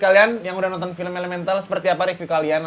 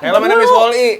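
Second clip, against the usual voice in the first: high, loud little robot voice; toy robot; 6 semitones higher, 10 dB louder than usual. Pretend. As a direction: chirp it like a small robot. Guessing game, answering as Wall-E.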